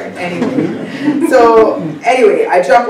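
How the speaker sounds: giggling through anyway, pitch jumping up; bubbly laughing restart. Real, not acted. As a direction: laugh it off and push on. Laughs at the slide, excited.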